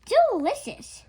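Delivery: high, loud and thrilled; a guest's gushing praise; delighted. Acted. Guest tastes the cake.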